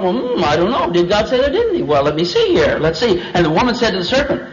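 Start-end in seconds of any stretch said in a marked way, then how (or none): 0.0-3.2 lightly acted hesitation, thinking aloud; a touch of puzzled wondering; pondering Eve. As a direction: mull it over, lifting the questions. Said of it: "the woman thought".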